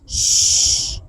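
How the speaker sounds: loud unvoiced hush; soothing shush. A narrator's reading. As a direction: hush a frightened child. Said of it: "like he was a scared little kid".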